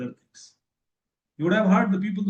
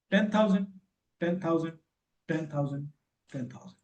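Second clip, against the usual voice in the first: ten thousand repeated like a chant, fading away; hypnotic repetition. Shown as a demonstration. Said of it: "the way I am repeating".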